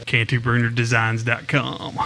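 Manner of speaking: measured announcer sign-off; radio voice. Shown as a demonstration. Co-host plugs the sponsor's website, radio voice. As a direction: read the web address like radio. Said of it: "Now I did the radio voice".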